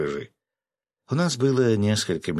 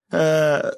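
high, loud "ah"; short raised cry of despair; desperate yell; 9 semitones higher, 6 dB louder than usual. A narrator's reading. Fisherman cornered over his beard, desperate yell. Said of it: "рыбак заорал".

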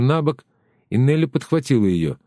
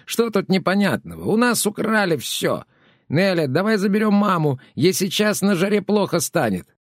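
much higher, indignant shout; angry outcry; 9 semitones higher than usual. A narrator's reading. Woman in cap angrily cries out at Pletnev, much higher. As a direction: snap back in outrage.

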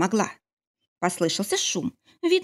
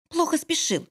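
displeased mutter; 10 semitones higher than usual. A narrator's reading. Wife grumbles at her husband for being late, displeased. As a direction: grumble it, clearly unimpressed. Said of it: "недовольно пробурчала я".

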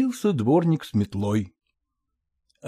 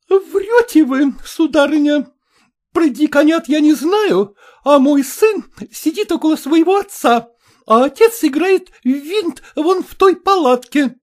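much higher, louder, angry; furious accusation; 12 semitones higher, 6 dB louder than usual. A narrator's reading. Maternitskaya calls the mother a liar, furious. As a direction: call her a liar.

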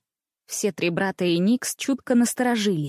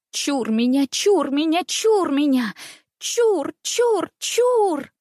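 rising, higher and higher warding-off chant; panicked cry; 7 semitones higher, slower than usual. A narrator's reading. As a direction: ward off the demon in terror. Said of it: "закричал, дико вытаращив глаза".

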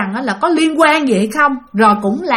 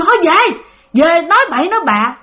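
mock scolding; 6 semitones higher, 4 dB louder than usual. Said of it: "tụi nó chửi quá trời".

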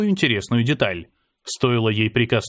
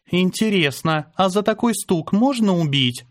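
drawling each word; 6 semitones higher than usual. A narrator's reading. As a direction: drag every word out lazily. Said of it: "Растягивая каждое слово".

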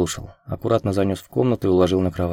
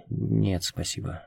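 тихо, почти шёпотом, отказ; еле слышно выдохнуть «нет, спасибо»; 8 dB quieter, slower than usual. A narrator's reading. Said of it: "шёпотом ответила она". (шёпотом, на грани беззвучия)

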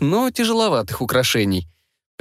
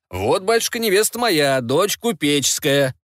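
higher, slower proud showing-off; boastful middle brother; 3 semitones higher than usual. Acted. Second son shows his merchant bride to father, high and proud. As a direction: present the bride like a prize.

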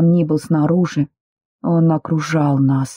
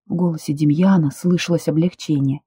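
usual speaking voice

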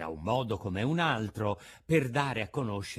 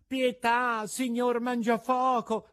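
high, loud begging cry; pleading; 12 semitones higher, 7 dB louder, slower than usual. A narrator's reading. Pinocchio kneels before Mangiafoco begging pity, high pleading cry. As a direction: beg for mercy on your knees. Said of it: "con voce supplichevole".

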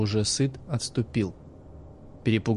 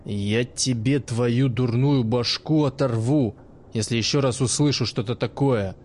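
grind out the threat slowly through your teeth; furious old man threatening the girl, slow and cold; slow menacing threat. Acted. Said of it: "Медленно процедил помнящий".

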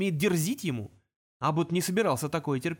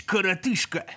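gruff demon insult; demon snarl; 4 semitones higher, 4 dB louder than usual. Acted. Demon snarling коротышка. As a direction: growl коротышка. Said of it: "Номер первый отступил".

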